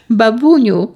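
high, loud call to grandma; boy calling his grandma. A narrator's reading. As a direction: call her over excitedly. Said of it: "zawołał Pawełek".

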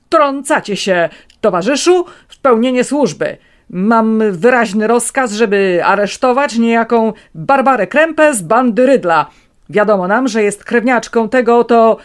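high, loud, insolent; brash officer voice. A narrator's reading. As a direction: lecture him with arrogance.

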